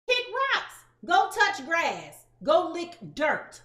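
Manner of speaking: slow, loud brush-off; dismissive sass. Real, not acted. Telling haters to leave, sassy and slow. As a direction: wave the haters away. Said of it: "If you don't like how animated I am".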